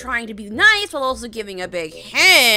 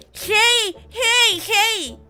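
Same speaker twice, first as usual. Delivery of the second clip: higher and louder, eager calls; excited scream; 10 semitones higher, 5 dB louder, much slower than usual. Acted. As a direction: call out to her with giddy excitement. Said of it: "he screams with excitement".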